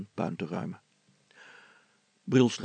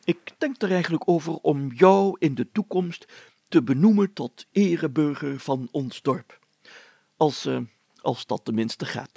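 the mayor addressing villagers, raised and louder; mayor holding forth, louder and higher; pompous mayor; 5 semitones higher, 7 dB louder than usual. Acted. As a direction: play a self-important village mayor.

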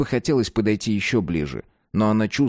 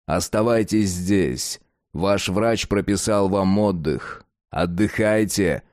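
ледяной голос; slower than usual. Acted. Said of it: "добавил Атон ледяным голосом".

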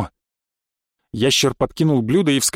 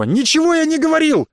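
furious protest; 12 semitones higher than usual. A narrator's reading. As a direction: shout the denial with all your hurt. Boy protesting to father.

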